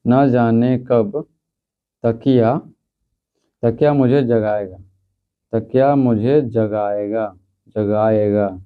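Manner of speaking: slow, stretched dictation; teacher dictating the answer, slow. Shown as a demonstration. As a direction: dictate each word slowly. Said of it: "तो लिखेंगे".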